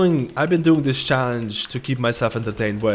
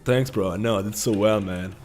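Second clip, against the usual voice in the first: smug tank reply; 2 semitones lower than usual. Retold or imitated. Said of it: "it'd be like".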